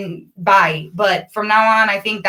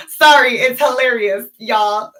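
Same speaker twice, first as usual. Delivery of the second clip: laughing apology; laughing sorry. Real, not acted. Laughing at herself.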